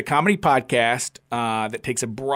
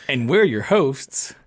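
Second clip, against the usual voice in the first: slow; slower than usual. Shown as a demonstration. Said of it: "You wanna do the intro?".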